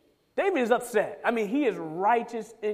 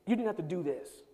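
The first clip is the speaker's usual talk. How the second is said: softer, gentle plea; pleading; 2 semitones lower, 8 dB quieter than usual. Acted. God gently pleading with David, soft sorrowful plea. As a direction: plead it quietly, heartbroken. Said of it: "That's what God is pleading with David".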